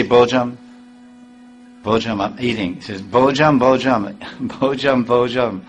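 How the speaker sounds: stammering "Bojam, Bojam" as if overwhelmed with feeling; ecstatic stutter. Retold or imitated. Devotee overcome by the taste of remnants, stuttering. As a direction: stumble over "Bojam" with joy, voice catching. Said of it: "it's stuttering".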